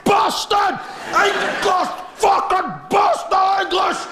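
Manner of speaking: high, drawn-out bellowing Scotsman; cow with a cough. Acted. First type of Scotsman abusing the English, cow with a cough. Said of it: "sounds like a cow with a cough".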